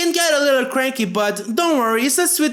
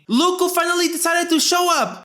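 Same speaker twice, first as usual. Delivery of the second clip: sarcastic mom; 6 semitones higher than usual. Acted.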